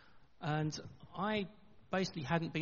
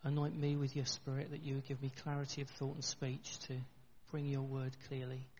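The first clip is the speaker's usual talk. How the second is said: softer, measured praying voice; earnest prayer; 7 dB quieter than usual. Real, not acted. Preacher asks God to bless his sermon, softer prayer. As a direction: pray quietly for a clear word.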